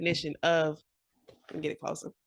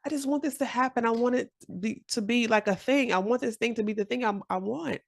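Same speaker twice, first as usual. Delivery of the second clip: wishful inner voice; 5 semitones higher than usual. Retold or imitated. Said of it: "you think".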